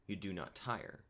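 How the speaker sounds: ordinary talk, nothing marked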